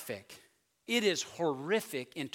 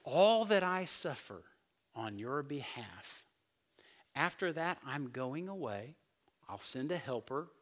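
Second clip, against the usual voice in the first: soft Jesus; 2 semitones lower, 4 dB quieter than usual. Retold or imitated. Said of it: "He's saying".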